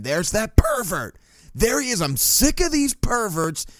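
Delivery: high-pitched, drawn-out indignant accusing; mock outraged rant. Woman accuses his friend in public, mock outrage. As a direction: imitate a woman going off in a high voice. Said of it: "she just starts going off again".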